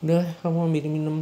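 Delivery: impatient order. Acted. Suami memerintah istri. (perintah tidak sabar, cepat dan keras)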